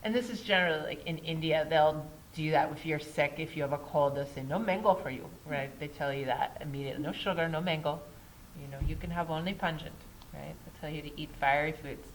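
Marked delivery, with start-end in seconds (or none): 4.4-5.3 put-on light, half-hearted Indian accent; quick put-on Indian accent. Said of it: "I apologize for my Indian accent. It's really bad". 7.0-9.9 put-on light, half-hearted Indian accent, quick; fast put-on Indian accent. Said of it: "I apologize for my Indian accent. It's really bad".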